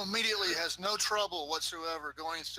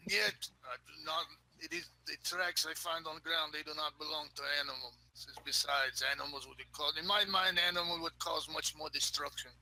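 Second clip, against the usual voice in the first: dwarf voice. Acted. Dwarf character explains.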